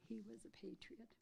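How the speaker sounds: emotional whisper. Real, not acted. Emotional tribute to late uncle.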